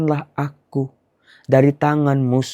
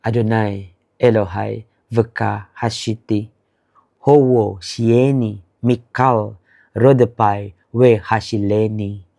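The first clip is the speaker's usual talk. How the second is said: slow prayer; 2 semitones lower than usual. Shown as a demonstration. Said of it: "Sekarang Anda ulang, ganti aja kalimatnya".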